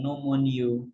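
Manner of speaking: ordinary delivery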